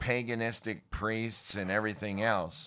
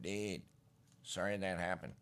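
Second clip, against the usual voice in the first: valley dude; 7 dB quieter than usual. Retold or imitated. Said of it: "That's where the Valley talk came from".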